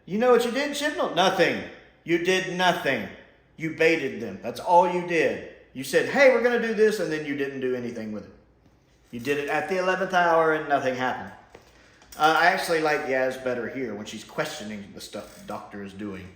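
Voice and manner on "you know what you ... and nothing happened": exasperated rant. Acted. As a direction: let your indignation build. Ranting at Chibnall.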